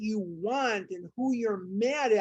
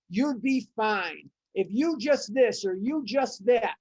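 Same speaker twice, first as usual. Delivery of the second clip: mock scolding; 4 dB louder than usual. Recalling people's advice, a louder mocking scold. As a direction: lay into yourself like every know-it-all. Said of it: "I have been told by people".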